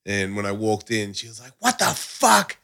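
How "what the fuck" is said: high-pitched indignant quote; mock outraged partner; imitated outrage. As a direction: act out her shocked outrage. Retelling partner's angry confrontation.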